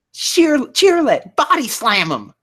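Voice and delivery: high, loud, slow trainer cry; shouted battle command. Acted. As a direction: call the attack across the arena.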